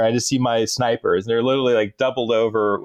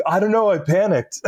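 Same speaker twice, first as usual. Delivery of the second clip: lightly imitated nerd, pitched up; Napoleon Dynamite; 6 semitones higher than usual. Driver explaining himself to his officer, lightly mimicked nerd voice. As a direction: mimic an awkward nerd's excuse, mildly. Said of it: "the Napoleon Dynamite".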